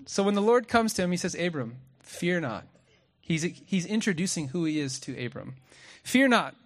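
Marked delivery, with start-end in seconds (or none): 1.4-2.6 gentle reassurance. Retold or imitated. God calms the frightened Abram. 6.0-6.5 louder and higher, proclaiming it; bold declaration. Retold or imitated. God introduces himself to Abram.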